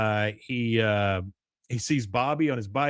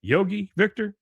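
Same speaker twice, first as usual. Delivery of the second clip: tentative repeated calls, rising higher; mock calling out; 6 semitones higher than usual. Hank trying to get the yogi to turn around, mock calling out. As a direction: keep trying for his attention, pitched up.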